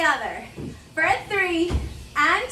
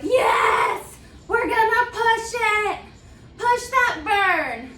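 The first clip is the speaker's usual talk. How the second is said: hyped-up self pep talk; 5 semitones higher, slower than usual. Retold or imitated. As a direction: fire yourself up to push through. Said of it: "so I'm like".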